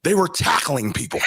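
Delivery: mocking Cowherd. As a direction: parrot the pundit in a put-on voice. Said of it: "what did he say again".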